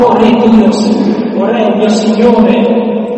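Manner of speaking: loud, slow call of David to Saul; crying out to the king. Acted. David calling out to King Saul, loud and pleading. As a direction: call out humbly to the king across the distance. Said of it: "gridò a Saul".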